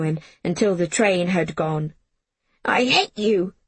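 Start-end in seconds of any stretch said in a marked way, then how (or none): 2.6-3.5 breathy whispered sob; sobbed whisper. Acted. Jamie sobbing at Miss Smith in a whisper. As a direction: choke the words out through tears. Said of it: "Jamie sobbed".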